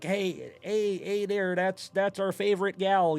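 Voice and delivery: half-hearted mock Canadian accent; attempted Canadian accent. Imitating hometown Canadian fans, badly faked Canadian accent. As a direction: try a Canadian accent, not quite landing it. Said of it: "I can't do the accent".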